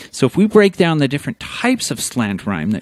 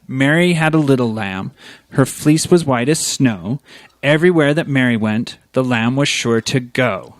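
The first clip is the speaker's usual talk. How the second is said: recited rhyme. Shown as a demonstration. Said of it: "best exemplified in".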